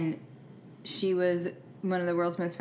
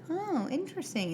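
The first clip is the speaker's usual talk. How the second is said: mock surprise; 10 semitones higher, 4 dB quieter than usual. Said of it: "Stefan has to be like".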